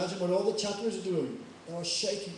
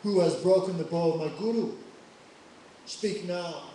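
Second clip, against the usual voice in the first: angry Parshuram; 6 dB louder than usual. Acted. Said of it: "Parshuram very angry".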